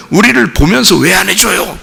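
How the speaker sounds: acted complaint. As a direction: complain to God on the people's behalf. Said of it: "또 이런다고요".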